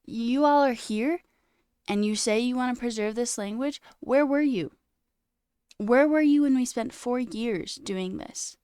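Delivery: elder scolding the community, accusingly; reproachful elder. Retold or imitated. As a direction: throw the question back at them, hurt and stern. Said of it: "She's like".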